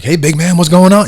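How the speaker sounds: recruiting coach calling out of the blue, acting casual; coach on the phone. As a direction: play it like nothing happened, buddy-buddy. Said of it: "and he's like".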